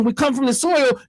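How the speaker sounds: a hint of mock oratory; mock philosophizing. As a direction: imitate a self-styled philosopher. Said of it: "he was philosophizing".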